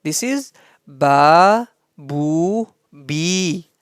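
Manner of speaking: Ba, bu, bi slow with long vowels; stretched vowels. Shown as a demonstration. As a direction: draw each vowel out, teaching pace. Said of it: "But it is". (مدّ واضح وبطيء للحركات)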